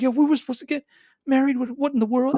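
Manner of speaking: put-on high, outraged girlfriend voice; mock-outraged bride left waiting; indignant woman. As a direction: play her super pissed. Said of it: "Baby girl was like".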